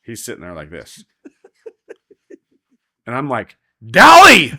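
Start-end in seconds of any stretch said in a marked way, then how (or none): 3.9-4.5 high, full-voiced urgent yell; scream. Roper screaming at partner to dally, high urgent shout. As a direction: scream DALLY across the arena. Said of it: "after I scream at him".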